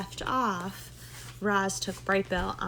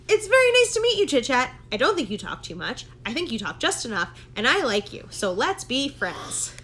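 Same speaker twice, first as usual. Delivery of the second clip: high, louder gosling voice, sincere; shy gosling working up courage, higher and louder; earnest little gosling; 3 semitones higher, 4 dB louder than usual. Acted. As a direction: speak up bravely to a new friend. Gosling answers after deep breath.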